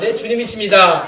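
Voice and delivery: slow, deliberate declaration; measured call-and-response lead; leading a repeat-after-me. Shown as a demonstration. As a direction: stretch it out for them to echo. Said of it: "따라합시다".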